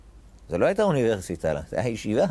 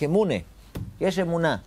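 mock shout; 6 semitones higher than usual. Teacher voicing Abraham crying out faith to the world, raised call. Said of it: "הוא צועק".

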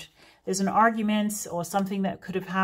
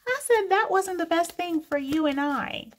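higher mock-posh "for you and I" with a laugh; mock pretentious speaker; 10 semitones higher than usual. Mocking a viewer's grammar, higher and laughing. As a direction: parody the fancy mistake, laughing. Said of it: "mocking wrong grammar".

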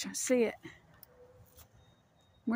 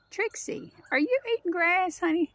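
high and louder pet voice; 10 semitones higher, 3 dB louder than usual. Real, not acted. Owner catching her dog Trixie eating grass, loud high pet talk. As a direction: coo up high and a bit louder at the grazing dog.

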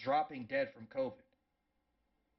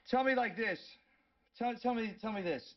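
tell me; 9 semitones higher, 3 dB louder than usual. Real, not acted. Demanding, raised pitch.

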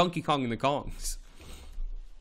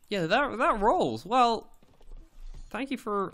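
delighted; 10 semitones higher than usual. Real, not acted. Reacting delighted to viewer.

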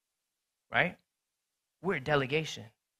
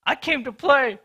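higher and louder, insisting; defiant shout; 7 semitones higher, 6 dB louder than usual. Retold or imitated. Teammate answering the brother, defiant shout. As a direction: shout back that you came to play. Retold quarrel on the court.

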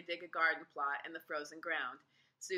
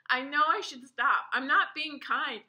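laughing; 6 semitones higher, 8 dB louder than usual. A narrator's reading. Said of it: "Susan was still laughing".

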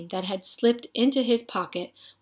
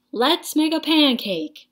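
put-on high, excited little boy; eager boy; 7 semitones higher, 4 dB louder than usual. A narrator's reading. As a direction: beg for the pancake happily.

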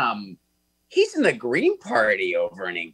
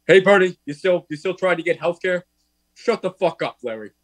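brash sibling jab, louder and higher; hammed-up big-brother ribbing; imitating Larry teasing Bernie; 5 semitones higher, 4 dB louder than usual. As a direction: needle your brother with a loud mock gruff tease. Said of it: "where he's like".

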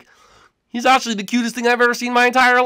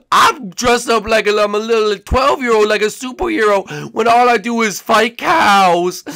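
louder, mocking Tyler; Tyler impression; 4 dB louder than usual. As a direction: roast Tyler in his voice. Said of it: "you wanna do it to me?".

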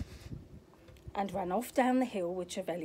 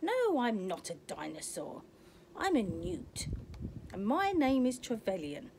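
proud newt; 2 semitones higher than usual. Acted. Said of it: "said the proud newt".

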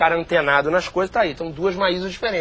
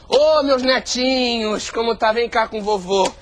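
grandpa voice; 2 semitones higher, slower than usual. Acted. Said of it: "simular o processo de envelhecimento".

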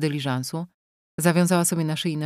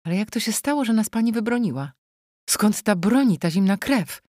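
trembling voice; 5 semitones higher than usual. Acted. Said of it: "zapytała trzęsącym się głosem".

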